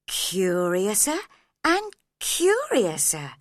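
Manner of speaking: drawn-out amazement, voice climbing; surprised. Acted. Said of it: "She was very surprised".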